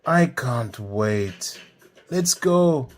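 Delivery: loud, rising eagerness; impatient urging. Acted. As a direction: stretch the words, then call out eagerly. Impatient Femi urges them on.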